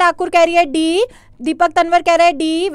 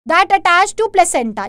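slow reading aloud; much slower than usual. Acted. Reads a phrase aloud.

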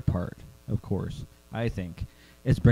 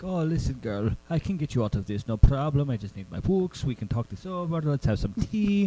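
softly put-on, vaguely Eastern European accent; vaguely German accent; 2 semitones higher, 6 dB quieter than usual. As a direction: coax in a loose German-ish accent. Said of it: "It felt slightly German".

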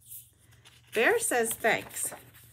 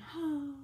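soft sigh; 5 semitones higher, 6 dB quieter than usual. Acted. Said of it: "he adds with a sigh".

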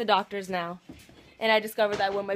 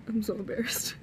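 embarrassed whisper. Real, not acted. Embarrassed at urgent care.

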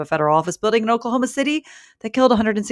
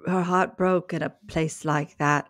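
Nicole Kidman; 5 dB quieter than usual. Acted. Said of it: "That was a pretty good Nicole Kidman".

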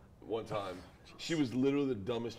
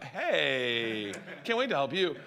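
fawning welcome; 3 dB louder, slower than usual. Acted. Staff greeting the best looking dude, fawning welcome. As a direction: gush as if thrilled to serve.

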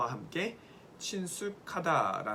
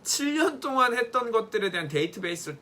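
higher, louder and faster, proud; proud excitement; 4 semitones higher, 5 dB louder than usual. Real, not acted. Teacher proudly tells students her tips are guaranteed, excited. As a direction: sell the tip with excited pride.

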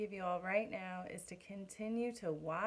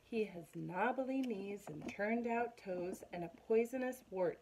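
dramatic storytelling mouse; mouse spinning a tale. Acted. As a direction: mouse scaring the fox, spooky. Mouse describes monster.

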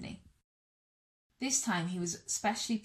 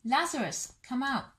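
a raised, carrying call into the tomb; loud call; 4 semitones higher than usual. Acted. Jesus calling Lazarus out of the tomb, raised voice. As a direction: call it out firmly, a touch higher. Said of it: "Jesus said in a loud voice".

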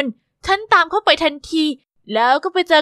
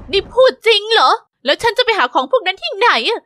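higher, startled protest; you can't be serious; flustered disbelief; incredulous; 6 semitones higher than usual. Acted. Told impossible quest.

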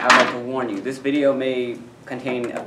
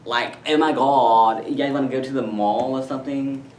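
put-on valley girl. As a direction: put on a mock mall-girl voice, stretching the opening. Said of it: "valley girl, yeah".

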